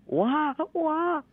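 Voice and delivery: high mock baby wail; baby cry imitation. Shown as a demonstration. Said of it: "一个是". (模仿婴儿哭声，高音假哭)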